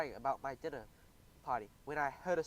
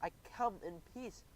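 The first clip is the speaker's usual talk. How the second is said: nervous; 5 semitones higher, 3 dB quieter, slower than usual. Acted. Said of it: "I stammered".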